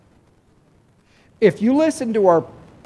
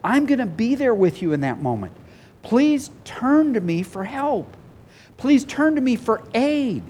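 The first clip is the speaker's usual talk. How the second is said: gentle plea as Jesus; 5 semitones higher than usual. Retold or imitated. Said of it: "Jesus ... says".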